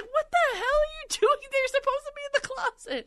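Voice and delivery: high, startled squeak of surprise; startled outburst. Retold or imitated. Owner startled by the dog in the bed, high shocked cry. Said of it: "And I was like".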